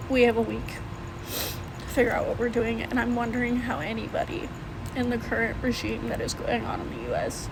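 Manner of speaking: shaky, worn-out voice after crying. Real, not acted. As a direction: talk through the tail end of tears. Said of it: "sorry, I've been crying and I'm trying to get my emotions out".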